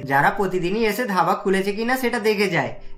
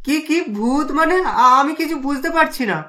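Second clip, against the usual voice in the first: stammering fear; 5 semitones higher than usual. Acted. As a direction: stutter as if spooked by a ghost. Husband scared of a ghost. (ভয়ে তোতলানো কণ্ঠ)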